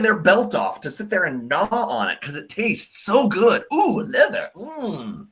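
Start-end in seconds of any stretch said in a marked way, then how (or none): 3.7-5.3 mock wine connoisseur. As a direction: ham up a snobby wine lover relishing it. Mocking a wine lover savoring.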